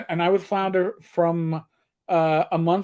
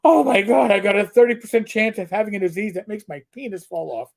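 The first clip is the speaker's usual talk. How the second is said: higher, louder mock panic over a test result; 4 semitones higher, 4 dB louder than usual. A worrier reading test results in mock panic. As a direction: play the overreacting worrier, half joking. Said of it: "you look at it and you go".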